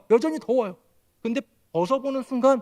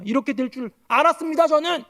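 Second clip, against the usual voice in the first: higher, pushed accusation; indignant protest; 6 semitones higher than usual. Acted. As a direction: throw the I-told-you-so back at God. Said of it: "이렇게 하면서 따지는 거예요".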